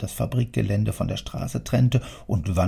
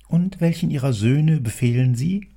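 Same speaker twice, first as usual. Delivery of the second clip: higher, louder polite question; 5 semitones higher, 4 dB louder than usual. Acted. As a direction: ask out loud, bowing. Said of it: "fuhr der Buchhalter laut fort".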